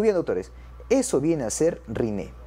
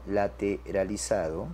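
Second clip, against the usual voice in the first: slow, low and softer repeat; dictation pace; 6 semitones lower, 5 dB quieter, slower than usual. Shown as a demonstration. Teacher repeats the result for students, dictation pace. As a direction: draw it out as if writing it down.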